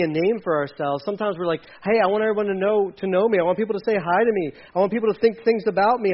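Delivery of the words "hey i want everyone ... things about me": quick, tumbling list of wants; imitated eager self-promotion. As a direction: rattle it off like an attention seeker. Self-promoter voiced, fast and eager.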